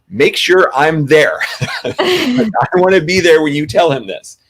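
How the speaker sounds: laughing as she recalls her demand; laughing through it. Real, not acted. Retelling her plea to John, laughing through the words.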